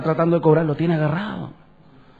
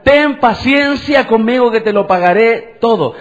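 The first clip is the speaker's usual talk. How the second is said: raised, emphatic mock plea; retold servant's plea; 4 semitones higher, 4 dB louder than usual. Preacher voices the prostrate servant asking for patience, retold plea. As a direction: plead higher, imitating the prostrate servant. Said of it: "el siervo postrado decía".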